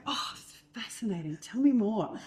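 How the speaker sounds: feigned fascination; mock fascinated. Shown as a demonstration. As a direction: flatter him with fake interest. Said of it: "Like this".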